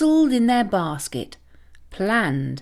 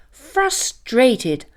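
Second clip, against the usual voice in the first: usual speaking voice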